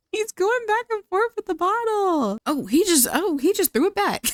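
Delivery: high-pitched, incredulous outburst; amused disbelief. Real, not acted. Gamer watching her Sim chug the whole bottle, amused disbelief. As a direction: squeal it in shocked amusement.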